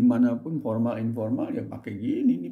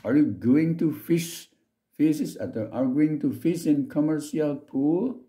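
slow, deliberate English with each word laid out; slow careful English; 4 semitones higher, slower than usual. Shown as a demonstration. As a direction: read it slowly for the students to copy. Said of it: "itu kan pronunciation". (bahasa Inggris pelan dan jelas untuk ditiru murid)

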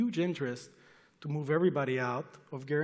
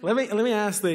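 loud cut-in; 7 semitones higher, 10 dB louder than usual. Real, not acted. Cuts in over moderator.

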